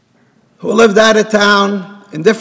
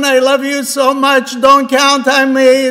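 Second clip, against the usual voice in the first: higher-pitched, mildly acted tearful plea; tearful pleading; 5 semitones higher than usual. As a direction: plead as if moved to tears. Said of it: "And he starts crying".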